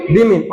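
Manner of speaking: बीमिन as bee-min, falling; correct pronunciation. Shown as a demonstration. Teacher repeating the correction for students, बीमिन as bee-min. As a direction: say बीमिन with ee and short i. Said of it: "क्या लिखा हुआ है".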